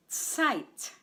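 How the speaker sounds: "Zeit" said alone as one clear syllable. Shown as a demonstration. Teacher models a syllable for learners to repeat, syllable by syllable. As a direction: give "Zeit" by itself, falling, for repeating. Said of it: "I'll say the word syllable by syllable".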